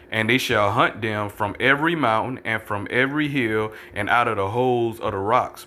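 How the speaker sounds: measured, slowed scripture read; deliberate Bible reading. Acted. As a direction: read the verse out like a preacher. Reads scripture aloud in a measured way.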